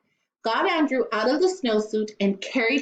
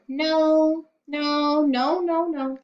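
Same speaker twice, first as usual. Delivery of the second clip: put-on child refusing; 6 semitones higher, much slower than usual. A narrator's reading. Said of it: "And Andrew said".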